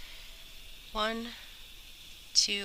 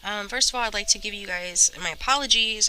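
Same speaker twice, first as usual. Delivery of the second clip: stuffy, rough voice from a cold. Real, not acted. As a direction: talk through a blocked nose with a cold. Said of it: "I sound stuffy and".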